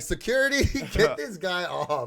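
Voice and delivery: calling security. Retold or imitated. Imagined call to security.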